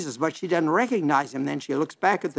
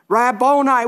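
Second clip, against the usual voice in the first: joyful recognition; 7 semitones higher, 6 dB louder than usual. Acted. Mary recognizes the risen Jesus.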